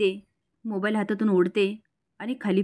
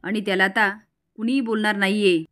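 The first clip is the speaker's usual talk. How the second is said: mildly raised, commanding voice; firm shout. Acted. Raghunath tells Manju nobody scolds the boy, firm mild shout. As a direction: lay down the law to the family. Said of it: "आता रघुनाथ ओरडतो".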